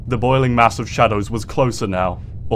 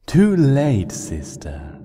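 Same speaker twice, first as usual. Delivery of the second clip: cruel taunt; 5 semitones higher, much slower than usual. Acted. Nightmare Moon refusing Celestia's plea, cruel whispered taunt. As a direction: sneer the last word. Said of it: "it said".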